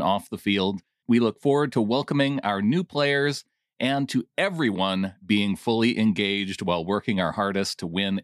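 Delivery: measured reading that leans on "made it clear" and "fully engaged"; pointed emphasis. Shown as a demonstration. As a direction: read the statement stressing the loaded words. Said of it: "I put the emphasis on the places".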